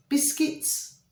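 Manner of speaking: breathy whispered title, one word; whispered answer. Pretend. Spirit guards answering in a hushed whisper. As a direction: hush it like a secret from beyond.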